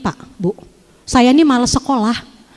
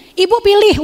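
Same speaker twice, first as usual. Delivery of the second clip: retold cocky challenge, pitched higher; cocky ultimatum; 6 semitones higher than usual. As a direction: lay down a mock-tough ultimatum, voice raised in pitch. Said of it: "jagoan banget". (menirukan gaya sok jagoan)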